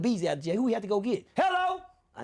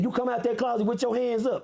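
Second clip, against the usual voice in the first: slow, higher commanding cop; police order; 6 semitones higher than usual. Retold or imitated. Police ordering him out of the closet, slow command.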